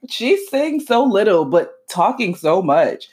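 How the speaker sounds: slow, laughing put-down; laughing mockery. Real, not acted. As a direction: drag it out while laughing. Mocking the long celebrity post.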